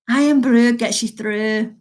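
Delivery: slow, deliberate Scottish accent on the slogan. Shown as a demonstration. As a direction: put on a Scottish accent for "Irn-Bru gets you through". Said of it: "Let me accent".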